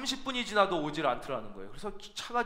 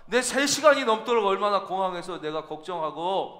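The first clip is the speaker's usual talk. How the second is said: restrained anger. Retold or imitated. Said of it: "화를 억누르면서 그랬대요".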